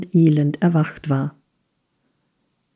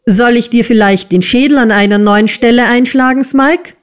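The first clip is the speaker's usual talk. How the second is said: high, fast threat from the schoolmaster's wife; shrill, rapid scolding rising on the name; shrill yelling; 6 semitones higher, 4 dB louder than usual. A narrator's reading. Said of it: "gellte die liebenswürdige Schulmeistersgattin".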